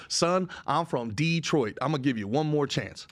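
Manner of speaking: measured tough-guy teacher impression; imitating a Detroit teacher. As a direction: play the teacher laying down a last chance. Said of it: "That's the way he said it too".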